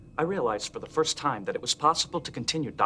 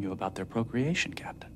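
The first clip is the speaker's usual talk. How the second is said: whisper; 3 semitones lower, 4 dB quieter than usual. Acted. Data answers the captain.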